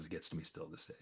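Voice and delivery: real hushed whisper, choked up; a real, moved whisper; whispered emotion. Real, not acted. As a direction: drop to a whisper as the memory gets to you. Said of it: "This is the part, guys".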